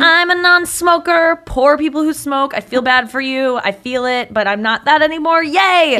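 lightly mocking smug voice; smug non-smoker. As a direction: gloat kindly like a proud convert. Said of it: "You were like".

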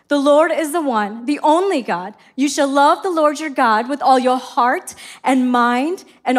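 solemn Bible reading to the congregation; scripture reading. Acted. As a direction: read the verses with weight and reverence. Reads scripture aloud.

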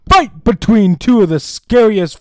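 booming, high, slow ring announcer. Shown as a demonstration. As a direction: stretch it out like a boxing announcer. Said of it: "Let me get my announcer voice".

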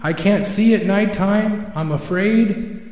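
high, indignant owl, loudest at the start; angry owl. Acted. Owl learning Creator has been watching, angry. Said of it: "Al really gets angry".

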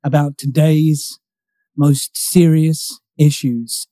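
slow, grave newsreader delivery, only lightly done; slow it right down like a solemn anchorman; a hint of a serious news voice; mock news anchor. Shown as a demonstration. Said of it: "going through a deep, serious voice".

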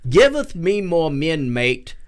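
slow, hammed-up Australian accent; bad Australian accent. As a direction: put on a poor Aussie accent. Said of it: "It was the worst Australian accent ever".

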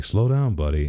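high-pitched lift, dropping on the last word; retold plea to ease off; retold coaxing. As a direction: imitate a dad trying to calm his son. Dad coaching son, retold.

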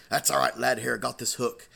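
lightly voiced pirate shrugging it off; a hint of hearty sea-dog. Pirate reassures the lad about his peg leg, lightly voiced pirate. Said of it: "there was a real life pirate".

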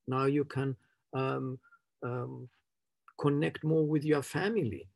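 seductive women's voice. Retold or imitated. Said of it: "in a very seductive, uh, women's voice".

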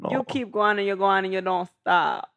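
loud Jamaican accent demo. Shown as a demonstration. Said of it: "You wanna hear my Jamaican one?".

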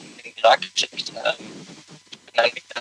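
choppy phone line; call dropping out. Real, not acted. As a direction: voice breaking up on a bad line. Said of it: "Du bist gerade in einem Funkloch".

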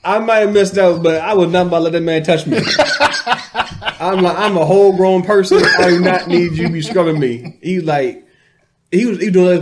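laughs through it, high and loud; real laughter breaking into the story; laughing. Real, not acted. Laughing while telling a friend how he refused the scrub.

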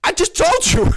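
incredulous laughing reply; exasperated laugh. Real, not acted. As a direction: laugh off the question in disbelief.

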